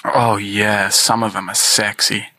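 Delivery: low, husky put-on sexy voice. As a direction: drop into a mock sultry tone. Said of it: "Is that your sexy voice".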